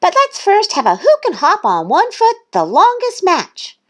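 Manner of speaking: high, loud little-duck enthusiasm; excited. A narrator's reading. Thistle proposing games to Goose, high excitement. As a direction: rattle off contests in a high voice.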